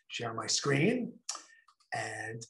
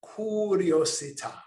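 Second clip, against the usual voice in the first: best Italian accent; 4 semitones higher than usual. Shown as a demonstration. Teacher models the word for listeners to copy, in a mock Italian accent. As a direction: give curiosità a playful Italian flourish. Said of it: "Say it in your best Italian accent".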